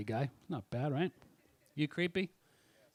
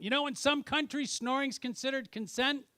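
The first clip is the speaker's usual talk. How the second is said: put-on creepy drunk pickup line; 8 semitones higher than usual. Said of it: "I went".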